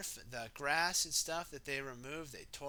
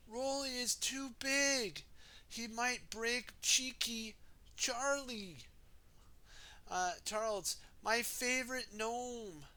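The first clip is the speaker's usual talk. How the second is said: fretful Missus Potts; 7 semitones higher than usual. Acted. Missus Potts begging Wendy to spare her gnome, high pleading. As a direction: beg gently for her precious gnome.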